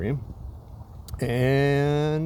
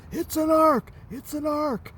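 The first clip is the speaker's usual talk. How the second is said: higher, lightly voiced indignant Noah; huffy Noah; 12 semitones higher than usual. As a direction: mildly insist on the right word. Noah correcting the word boat.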